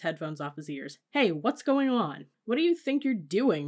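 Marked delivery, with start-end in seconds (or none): 1.1-2.3 high, loud, drawn-out alarm; startled shout. A narrator's reading. Brother jolted by the swerving car, startled shout. 2.4-3.7 high, loud angry yell. A narrator's reading. Dad to mother grabbing the wheel, outraged yell. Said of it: "my dad yelled".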